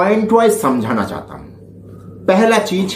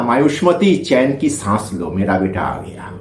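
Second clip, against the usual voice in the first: Devasena impression; 4 semitones lower than usual. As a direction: let the quoted line drop away into a low hush. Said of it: "Devasena बोला था ना".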